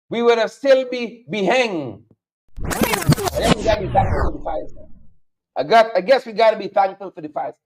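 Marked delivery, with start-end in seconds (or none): 2.6-4.7 a mock-grateful put-on voice, pitched higher; sarcastic. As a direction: fake thankfulness, dripping with irony. Sarcastic aside about wildfires.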